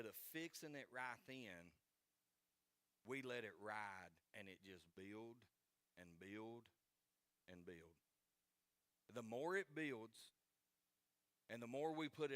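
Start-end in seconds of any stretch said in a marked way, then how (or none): 4.3-7.9 spaced-out repeats, sinking away; fading repetition. Real, not acted. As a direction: drop lower and softer with each repeat. Repetition dramatizing trouble slowly piling up.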